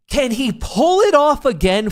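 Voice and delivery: high hyped play-by-play voice; mock announcer. Streamer to viewers about his own trade, mock sportscaster hype. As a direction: call it like a sportscaster hyping a comeback.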